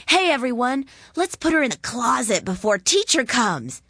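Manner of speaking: high, loud rallying call. A narrator's reading. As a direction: rouse the gang. Boy rallies the children.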